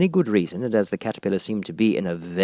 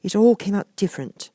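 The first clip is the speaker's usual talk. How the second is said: melancholy; 12 semitones higher than usual. A narrator's reading. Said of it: "in a very melancholy voice".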